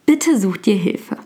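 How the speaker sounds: ordinary delivery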